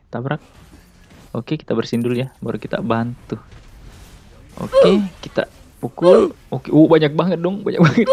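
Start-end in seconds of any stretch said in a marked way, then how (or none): 4.5-8.1 excited gamer. Real, not acted. Swarmed in a teamfight.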